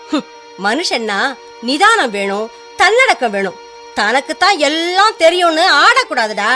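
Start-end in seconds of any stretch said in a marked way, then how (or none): 2.8-6.5 stern scolding. Acted. Mother lectures son on humility.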